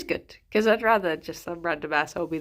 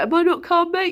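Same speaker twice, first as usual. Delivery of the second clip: retold angry outburst; 11 semitones higher, 5 dB louder than usual. Drunk guy escalating argument.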